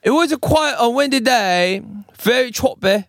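put-on Australian accent. Host voicing the lifeguard on the windy day, Australian accent. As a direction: read the quote with an attempted Australian accent. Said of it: "I'm gonna do a Australian accent".

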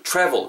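"travel" said like "chravel"; tr as chu. Shown as a demonstration. Teacher giving another example, "travel" starting like Korean "추". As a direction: open "travel" with a ch sound. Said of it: "트보다는 약간 추에 가깝다라는".

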